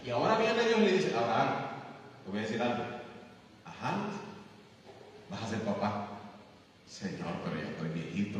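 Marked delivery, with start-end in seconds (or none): 1.2-6.1 lower, softer solemn God voice. Acted. God telling old Abraham he will be a father, low and solemn. 6.9-8.4 put-on much lower, softer old-man voice; old Abraham. Old Abraham objecting to God that he is too old, low and soft.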